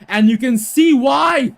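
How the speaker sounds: loud, high play-by-play shout; excited commentary call. Acted. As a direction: call the six like live TV. Commentator calls a six.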